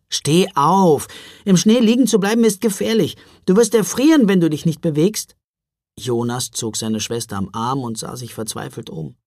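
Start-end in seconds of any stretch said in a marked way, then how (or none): 0.1-5.4 high, fast, urgent push to get up; urgent pleading. Acted. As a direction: beg her to move, quickly. Boy urges freezing sister up.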